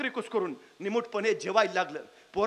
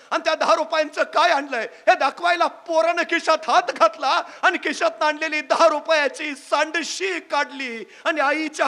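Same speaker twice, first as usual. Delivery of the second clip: louder, swelling telling of the tearful embrace; loud, heartfelt storyteller's climax; emotional climax; 4 semitones higher, 7 dB louder than usual. A narrator's reading. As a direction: rise to a loud, moved peak as she weeps. Mother moved to tears by gift.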